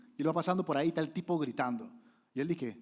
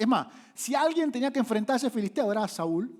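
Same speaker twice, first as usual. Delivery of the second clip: loud preaching; 8 semitones higher, 6 dB louder than usual. Acted. Preaching peak.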